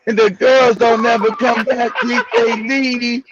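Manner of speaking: lightly voiced sleepy mumble, slow; half-asleep drawl. Teasing Samuel for sounding lethargic on air, slow sleepy mimicry. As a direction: mimic a man barely awake, words dragging. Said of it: "Samuel be talking like he halfway asleep".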